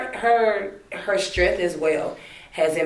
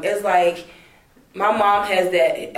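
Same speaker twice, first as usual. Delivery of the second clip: usual speaking voice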